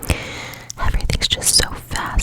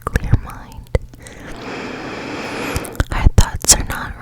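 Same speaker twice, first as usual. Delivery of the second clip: guided meditation. Acted. Host guiding listeners to clear their thoughts, whispered guided meditation. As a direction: whisper them gently into a clear mind.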